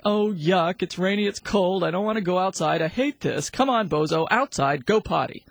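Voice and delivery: grumpy owner dragging the dog out; grumpy grumble. Shown as a demonstration. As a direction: grumble like you hate the rain. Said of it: "get grumpy, grumble something like".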